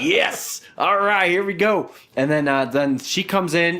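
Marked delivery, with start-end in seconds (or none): 0.0-1.9 excited. Retold or imitated. Retelling his joy when the girls arrived, higher excited cheer. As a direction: celebrate like the fun is starting. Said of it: "I'm like".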